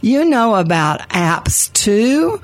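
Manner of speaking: high, slow, amazed blurt; astonished holler. Retold or imitated. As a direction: let the surprise burst out. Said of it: "she kind of hollered".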